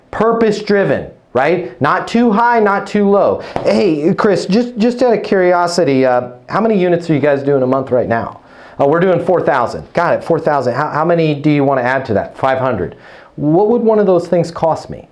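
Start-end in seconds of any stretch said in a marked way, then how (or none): 3.6-15.1 cool and calm. Shown as a demonstration. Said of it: "Just cool, calm, very neutral".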